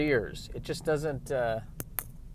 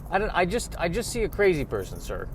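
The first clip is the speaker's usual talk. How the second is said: put-on higher, exasperated butler in an American accent; a fed-up butler dropping his British accent; Alfred, American accent; 5 semitones higher than usual. Butler to Mister Wayne, exasperated in an American accent. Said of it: "why aren't you speaking with your typical British accent".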